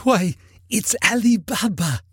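high-pitched ecstatic exclamation. A narrator's reading. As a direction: cry out in delighted recognition. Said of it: "Scrooge exclaimed in ecstasy".

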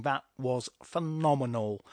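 slow, drawn-out talent-show verdict; X Factor judge. Acted. Talent-show judge praising a contestant, slow mock verdict. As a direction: play a TV judge giving measured praise. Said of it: "someone judged from X Factor saying".

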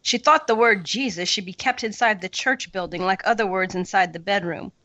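reading a passage aloud, measured; story reading. Acted. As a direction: read the passage with care, like to a class.

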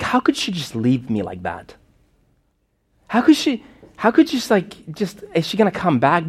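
put-on high, pleading child's questions, pitch climbing; a scared little boy asking where his mother went; retold child's despair. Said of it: "And I was crying".

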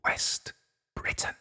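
soft teasing whisper into his ear. A narrator's reading. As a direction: breathe it right into his ear. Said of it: "whispered into his ear".

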